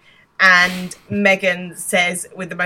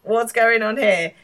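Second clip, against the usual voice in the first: higher, drawn-out, imitating a delighted busybody; hammed-up, louder greeting, then a slow question; mock nosy delight; 4 semitones higher, 4 dB louder, slower than usual. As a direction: pounce on the gossip with relish. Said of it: "this is music to his ears".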